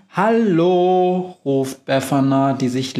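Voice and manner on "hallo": drawn-out, slow mock Hallo; mocking imitation. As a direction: stretch Hallo slowly to mimic the broom. Befana mocks Globus's call.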